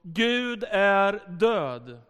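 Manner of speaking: slow, half-voiced retold yell; retold shout. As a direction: imitate an angry heckler, stretching each word. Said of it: "så skrek han framför oss".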